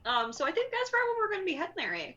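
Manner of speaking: a hint of chatty character voice; agreeable dwarf woman. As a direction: answer readily in a folksy voice. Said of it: "she just kinda nods and says".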